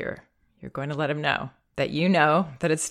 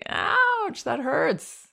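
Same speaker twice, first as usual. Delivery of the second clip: much higher squeaky ouch, that hurts; baby's protest; 10 semitones higher, much slower than usual. Retold or imitated. Child protesting stinging drops, squeaky much higher voice. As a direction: voice the child's complaint. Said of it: "he should be able to say".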